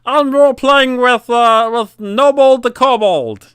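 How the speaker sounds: imitating a player delighted to roleplay with Noble the Kobold; excited player. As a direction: gush about meeting the NPC. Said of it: "players say".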